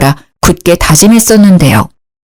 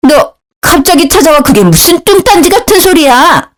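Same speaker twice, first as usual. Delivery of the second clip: higher, sharp voice of an annoyed mother-in-law; scolding mother-in-law; 8 semitones higher than usual. A narrator's reading. Mother-in-law scolding the daughter-in-law who barged in, in a higher, sharp voice.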